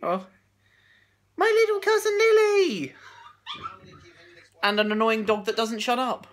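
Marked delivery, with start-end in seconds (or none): 1.4-2.9 delighted greeting. Real, not acted. Greeting little cousin.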